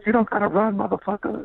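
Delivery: put-on old security guard calling out.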